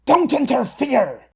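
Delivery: high, loud yell. Acted. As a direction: yell it out sharply. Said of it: "Flicker yelled".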